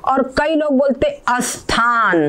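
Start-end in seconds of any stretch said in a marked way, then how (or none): 1.3-2.2 अस्थान with an added a before the s; wrong pronunciation. Shown as a demonstration. Teacher imitates another common mistake. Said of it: "ये दोनों ही गलत है".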